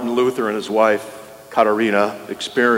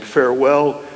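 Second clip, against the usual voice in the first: exclaimed farewell; 3 semitones higher than usual. Retold or imitated. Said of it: "he exclaimed".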